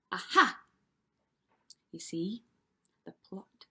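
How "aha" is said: loud, punched aha; knowing exclamation. A narrator's reading. Storyteller to young listeners as the trick is revealed, knowing exclamation. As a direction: cry out as if catching a plot. Reader exclaims as plot thickens.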